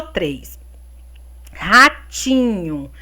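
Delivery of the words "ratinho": RATINHO said slowly, TI drawn out; stressed syllable shown. Shown as a demonstration. Teacher asking pupils for the strong syllable, Ratinho stretched on TI. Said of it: "a sílaba forte".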